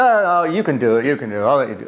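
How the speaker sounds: imitated Greek accent, encouraging; mild Greek accent, reassuring. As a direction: urge them on with a light Greek accent. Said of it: "he had a thick accent".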